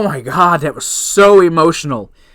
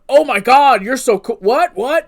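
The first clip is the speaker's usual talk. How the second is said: high-pitched mock fangirling; mock gushing; 7 semitones higher, 4 dB louder than usual. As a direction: send up an excited first meeting, pitched high. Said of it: "was not like this".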